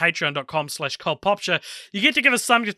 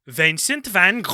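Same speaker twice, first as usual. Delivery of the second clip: slow mock Dutch accent on "Vincent van Gogh", vowels shifted; hammed-up Dutch take on the painter's name. Shown as a demonstration. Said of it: "That was my Dutch accent".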